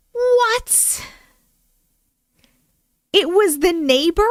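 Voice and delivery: high shocked what; stunned by the twist. Real, not acted. Shocked at the story ending.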